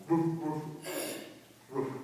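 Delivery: short, low woofs with gaps; imitated barking dog. Neighbor's dog going all night, imitated barking. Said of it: "It's like that dog".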